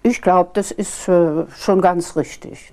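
retold curt retort, only slightly prickly; mildly snippy. Newcomer presenter bristling at a colleague's question, mildly snippy. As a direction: answer back with a touch of huffiness. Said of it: "sagte also ziemlich patzig".

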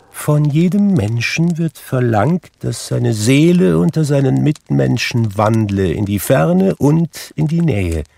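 high, loud, doom-laden ghost voice; solemn ghost. A narrator's reading. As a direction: pronounce it like a damned spirit.

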